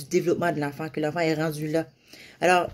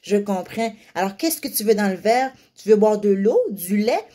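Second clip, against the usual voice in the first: put-on cooing to a child; 3 semitones higher, 3 dB louder than usual. Shown as a demonstration. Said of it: "puis il dit".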